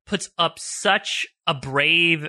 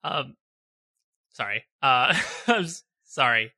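fighting back tears, apologizing between breaths; a real catch in the throat, trying to recover; choked up. Real, not acted. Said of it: "I gotta get my composure back".

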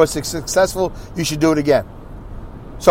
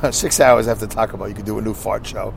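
rereads it through a chuckle, softer; chuckling quietly; laughing; 7 semitones lower, 5 dB quieter than usual. Real, not acted. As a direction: laugh while rereading the joke. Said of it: "That's great".

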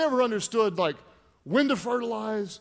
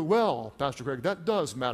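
mock objecting listener; 7 semitones lower than usual. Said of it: "Some of you go".

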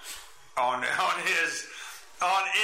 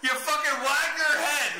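mock insult; 8 semitones higher than usual. Heated joking insult.

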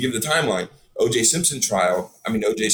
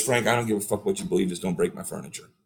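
dead serious retold boss; 2 semitones lower, 3 dB quieter than usual. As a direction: lay it down lightly but seriously, dropping softer at the end. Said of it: "he was dead serious about that".

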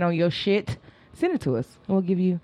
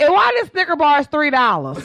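laughing; 9 semitones higher, 5 dB louder than usual. Acted. Mock shopkeeper quarrel over price.

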